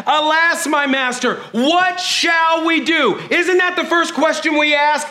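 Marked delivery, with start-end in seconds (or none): 0.1-3.2 mild panicked servant. Retold or imitated. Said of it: "the servant said".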